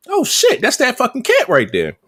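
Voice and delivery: high-pitched retold double take; surprised. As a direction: act out spotting it with a high 'oh shit'. Spots the cat, retold reaction.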